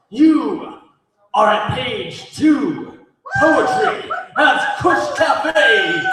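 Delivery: big announcer voice with drawn-out words; theatrical emcee. Acted. Emcee's theatrical show opening.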